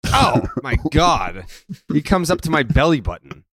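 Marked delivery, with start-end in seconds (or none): 0.1-1.5 slow, drawn-out astonishment; slowly savored amazement; amazed disbelief. Real, not acted. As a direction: stretch it out in comic disbelief. Reacts to hearing the height.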